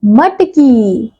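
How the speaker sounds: मटकी said very slowly, every syllable separate; slow clear word demo. Shown as a demonstration. Teacher revealing the finished word to children, slowly. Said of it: "तो शब्द क्या बन गया".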